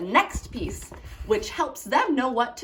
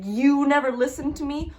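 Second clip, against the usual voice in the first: blaming tone; 4 semitones higher than usual. Shown as a demonstration. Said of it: "start the sentence with the word you".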